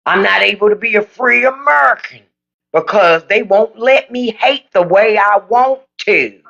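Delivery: lightly mock the aggrieved voice; mock conservative. Mocking conservatives' complaint to viewers, light mock voice. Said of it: "that's a violation of my rights".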